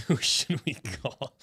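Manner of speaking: slow, teasing echo of the question; mimicking drawn-out musing. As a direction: parrot the stretched-out question. Echoes the other's drawn-out question.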